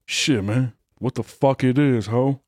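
mock regular voice. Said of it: "That is my re-, that's my regular voice".

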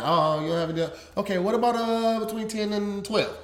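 lightly hesitant, feeling for an alternative; imitating thinking aloud. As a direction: mimic an assistant working out options. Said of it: "like thinking, planning it".

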